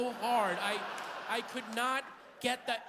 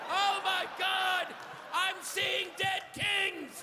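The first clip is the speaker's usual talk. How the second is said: mock ecstatic shout; 10 semitones higher, slower than usual. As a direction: cry out like a vision. Comic ecstatic outburst.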